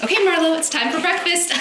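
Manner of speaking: squealy high-pitched dog-mom voice. Real, not acted. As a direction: sing it up to the dog like breakfast is a party. Excited dog-mom call to dog.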